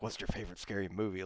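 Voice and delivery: a hint of the creepy phone whisper; lightly voiced horror movie caller; Scream caller imitation. Guest explaining which voice he meant, lightly imitated. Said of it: "the dude from Scream when he's talking on the phone".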